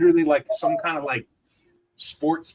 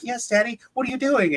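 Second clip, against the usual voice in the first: imitated daughter; 10 semitones higher than usual. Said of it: "And she's like".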